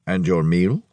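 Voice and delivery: low voice, rising at the end; smiling inquiry. A narrator's reading. Max asking the customer about his meal, smiling inquiry. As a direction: ask politely with a smile, pitched low. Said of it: "Max inquired, smiling".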